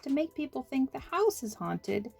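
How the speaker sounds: small nervous voice explaining himself; shy little man. Acted. Little man's voice held.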